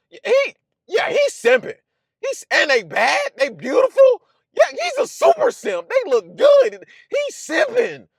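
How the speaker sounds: high, hammed-up hype about a guy; mock hyped gossip. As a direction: play the crowd going wild over a big spender. Mocking hype about a rich guy.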